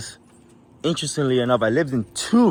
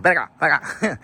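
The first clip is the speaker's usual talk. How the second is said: mock version of the call; imitating own dog call; 6 semitones higher, 5 dB louder than usual. Shown as a demonstration. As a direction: replay the call in a put-on voice. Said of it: "but it sounds like".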